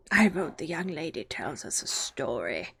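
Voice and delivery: hushed, drowsy suggestion; lazy whisper. Acted. March Hare drowsily suggesting a story, hushed. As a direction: mumble it sleepily.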